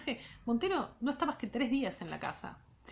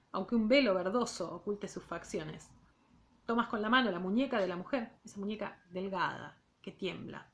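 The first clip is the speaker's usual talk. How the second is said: measured literary read-aloud; reading a novel aloud to students; story narration. A narrator's reading. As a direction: read the novel to the class, unhurried. Teacher reads novel aloud.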